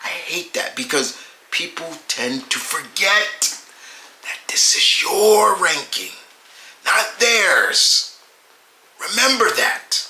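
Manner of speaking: raspy, breathy chain smoker voice; a rough smoker's rasp. Real, not acted. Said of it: "why am I talking like a chain smoker".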